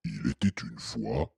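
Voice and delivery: very soft, low, slow storyteller; début de conte. Acted. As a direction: open the tale in a slow hush. Papa monstre commence son histoire. (conter tout bas, lentement, d'une voix grave)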